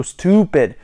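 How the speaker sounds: "stopped" with OO, as stoo-pid; British-style STOPPED. Shown as a demonstration. Summing up for viewers, "stopped" as stoo-pid. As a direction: say "stopped" just like stupid. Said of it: "it's like you're saying stupid".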